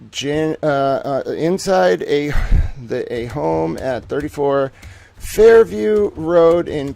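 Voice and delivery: slow, grave reading of the facts; dramatic report read. Acted. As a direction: lay out each detail heavily, one beat at a time.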